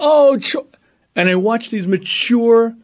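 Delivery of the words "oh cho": much higher, cut-off gasp; mock swooning gasp. Circle of dieters swooning over chocolate, much higher, cut off. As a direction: swoon at the very word, hammed-up. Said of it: "the other women around the circle go".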